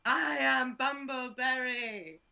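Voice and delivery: triumphant battle cry, slow; slow, roaring victory shout, blood-soaked; dark lord. Acted. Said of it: "and I scream".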